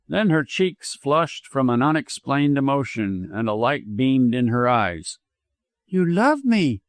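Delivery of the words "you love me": mild murmur, pitched higher; wondering, higher voice, only lightly murmured; soft murmur. A narrator's reading. Widow answers doctor's declaration of love, soft murmur. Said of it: "she murmured softly".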